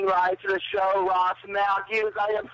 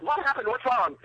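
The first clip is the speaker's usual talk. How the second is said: higher, mildly urgent quote; retold alarmed coworker; 4 semitones higher than usual. Caller retelling a coworker's reaction to the squeal, mildly alarmed. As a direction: imitate a worried coworker rushing over. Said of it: "My coworker came running and said".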